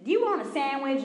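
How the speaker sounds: lady offering food. Retold or imitated. Retells the lady's offer.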